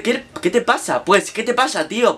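lightly faked Spanish accent from Spain; mock Spain Spanish. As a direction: Argentine putting on a Castilian accent, lightly. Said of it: "Porque es español".

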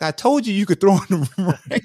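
high, loud, breaking into laughter; laughing retold boast. Receiver reminding quarterback he was right, high laughing boast. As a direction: crack up before the last word.

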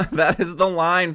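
laughing, choked-up repeat; fighting off tears. Real, not acted. Fan hit by a lyric, laughing through tears. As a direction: laugh it out while holding back tears. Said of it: "physically fighting off tears".

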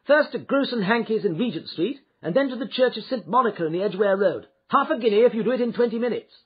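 high, urgent called-out directions; shouted orders. A narrator's reading. Hurried gentleman directing his cabman, shouting. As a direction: shout the route, speeding up toward the end. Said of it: "he shouted".

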